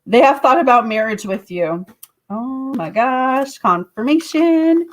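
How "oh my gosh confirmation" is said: amazed. Real, not acted. Reader reacts to marriage card.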